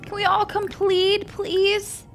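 frantic high pleas as the grandmother dies; distraught pleading. Real, not acted. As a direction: beg the game to stop her dying. Sim is dying, pleading.

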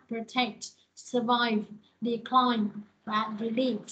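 "protect", "survive", "decline", "delete", each stressed on its second syllable. Shown as a demonstration. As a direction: say pro-TECT, sur-VIVE, de-CLINE, de-LETE for "protect", "survive", "decline", "delete". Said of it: "những từ này đều là nhấn âm hai hết".

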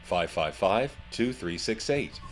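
noisy phone line with music behind; swamped by background noise; condenser mic phone. Shown as a demonstration. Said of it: "with a condenser mic, it's like this".

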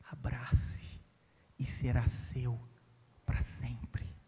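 low, slow, voiceless whisper; king's whisper. Acted. King whispering the offer to the poor boy, voiceless and slow. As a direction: let the promise fall to a hush.

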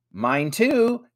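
high, loud agreeing; high-voiced child agreeing; eager agreement. A narrator's reading. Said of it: "agreed Ethan".

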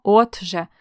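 "отже" split as от-же with a crisp т; clear т. Shown as a demonstration. Teacher showing the correct spelling, "отже" with distinct т. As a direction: articulate the т in "отже" before же. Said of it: "Правильно пишемо".

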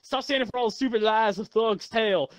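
country voice. Pretend. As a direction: preach it like an outraged country man. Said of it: "I'll do my good country voice this time".

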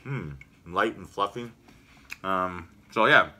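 speaking between bites; chewing while talking. Real, not acted. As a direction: mouth partly full of wafer. Seen 0: Bites wafer at -2; lips and jaw show chewing while talking.

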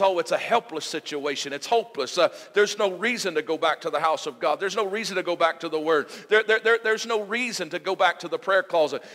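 loud, insistent voice of hopelessness, building; enemy's voice. Acted. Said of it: "when he says".

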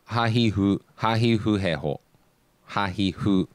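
"Ha, he, hu" recited evenly, hu between h and f; blended h sound. Shown as a demonstration. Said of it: "like a blend".

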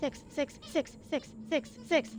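quiet urgent call to companion; hushed calling. Real, not acted. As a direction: call her without being heard. Calling softly in danger.

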